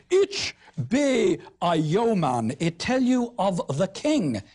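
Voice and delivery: slow, put-on southern gentry accent, stressing Ich; a northerner faking a posh Southerner; mock Southern accent. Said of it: "pan-Southernism".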